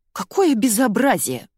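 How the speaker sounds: slow, loud outraged cry; outraged yell. A narrator's reading. Зайка yells in outrage at Кеша's joke. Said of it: "заорала Зайка".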